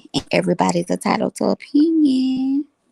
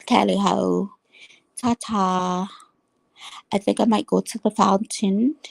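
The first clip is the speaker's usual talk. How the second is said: playful attempt at a London accent; 2 semitones higher than usual. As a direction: lightly put on a London accent. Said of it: "I'm trying to talk in my London accent".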